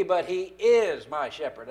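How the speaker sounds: "is" lengthened and pushed; stress on IS. Shown as a demonstration. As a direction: lean on "is" against was or hope to be. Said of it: "not was".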